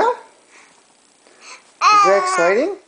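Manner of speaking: high, very slow, drawn-out question. Real, not acted. Father coos at startled baby, slow high baby talk.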